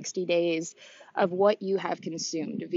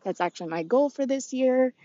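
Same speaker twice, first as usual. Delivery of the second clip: out of breath. Real, not acted. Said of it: "if I sound out of breath".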